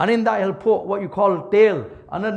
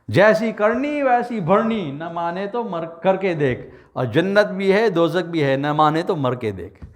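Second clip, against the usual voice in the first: rapid proverb; 2 semitones lower, much faster than usual. Acted. Quoting a saying, rapid.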